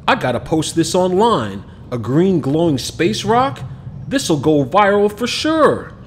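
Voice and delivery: put-on a kid thrilled by his find; boy planning to post the space rock online, excited; excited boy Kamal. Narrator voices boy Kamal.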